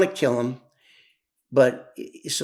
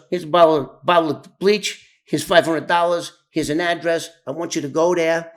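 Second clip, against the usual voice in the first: retold furious orders; 6 dB louder than usual. Enraged mob boss giving orders.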